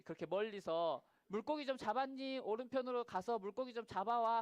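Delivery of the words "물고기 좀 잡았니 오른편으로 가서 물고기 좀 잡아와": calling from afar. Retold or imitated. Jesus calls to boat from shore.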